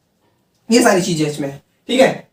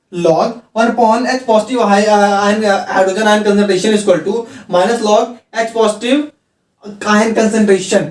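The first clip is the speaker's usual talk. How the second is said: slow dictation; much slower than usual. Shown as a demonstration. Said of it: "teacher dictating log identity".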